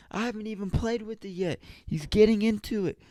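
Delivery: put-on high falsetto whine of a kid; mock tattling. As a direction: tell on your brother in a squeaky-high voice. Retells child's tattling protest.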